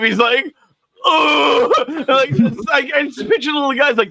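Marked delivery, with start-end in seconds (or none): 1.1-1.7 higher-pitched mock groan; stumped groan. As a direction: imitate someone stuck for an answer. Mimics frozen man asked his name.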